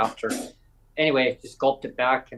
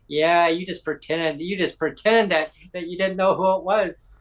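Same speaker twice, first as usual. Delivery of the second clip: teasing accusation; 4 semitones higher than usual. Retold or imitated. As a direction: accuse playfully with raised pitch. Premier teasingly accuses him, retold.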